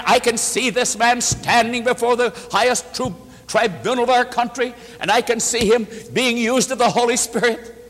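high, sustained preaching pitch; rousing, elevated promise; fervent exhortation. Retold or imitated. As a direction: paint a grand future with conviction. Preacher re-enacts his encouraging letters.

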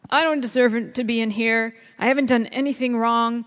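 imitating a sulky patient pleading to leave; half-hearted indignant whine; whiny protest. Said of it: "over and over and over".

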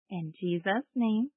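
put-on slow, gentle prayer line for kids; sweet patient sunday school. Shown as a demonstration. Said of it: "you can repeat after me".

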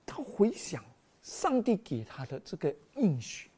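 hushed, breathy aside to the congregation; whisper. Real, not acted. Preacher whispering to the congregation about God's promise. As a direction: lean in and whisper the key point.

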